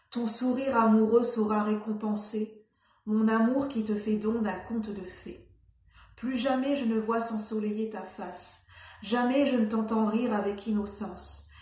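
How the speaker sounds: measured poetry recitation; deliberate storybook-poem delivery; poem reading. Acted. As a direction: read verse aloud with pauses between lines. Reads a poem aloud.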